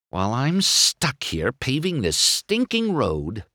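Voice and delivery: sulky race car griping; irritated complaint. Acted. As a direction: grumble about being stuck. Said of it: "he griped".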